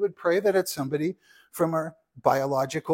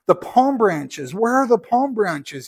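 loud, slow, higher demanding shout; 5 semitones higher, 8 dB louder, slower than usual. A narrator's reading. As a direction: call out for the missing palm branches, indignant. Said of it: "he shouted".

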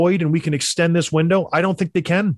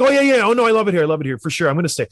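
mock eager reassurance; much faster than usual. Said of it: "He's like".

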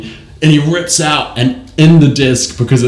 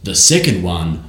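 Judi Dench impression; 5 semitones lower, 7 dB quieter than usual. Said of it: "Judi Dench goes".

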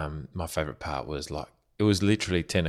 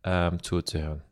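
higher, friendly German greeting; speaking German; 7 semitones higher, slower than usual. Shown as a demonstration. Husband greets German listeners in higher German. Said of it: "Go on then".

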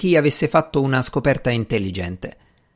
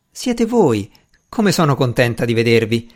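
joyful greeting. Acted. Arabella joyfully greets a visitor.

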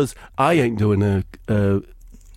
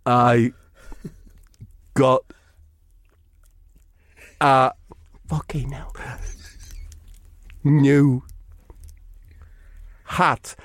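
dim slow Eric voice; slower than usual. Acted. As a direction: drag every word out like a dull lad. Eric answers in slow halting voice.

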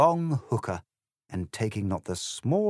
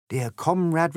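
smug Corbyn voice; 9 semitones higher, 5 dB louder than usual. A narrator's reading. Corbyn replies in poem.

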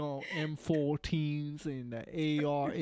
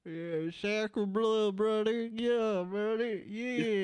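higher-pitched mock Southern voice; Southern accent; 6 semitones higher, slower than usual. Egging on the co-host with sacre bleu, mock Southern accent. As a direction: raise the pitch into a playful Southern twang. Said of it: "the stupid Southern bullshit".

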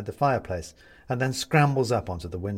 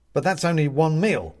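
nervous plea; 6 semitones higher, 6 dB louder than usual. A narrator's reading. Benedict pleads with the cat.

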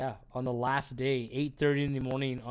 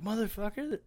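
awed curse; 9 semitones higher than usual. Retold or imitated. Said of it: "So I'm like".

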